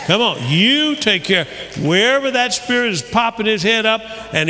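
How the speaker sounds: preaching at full force. Acted. Preacher urging the congregation to take authority, full-force preaching.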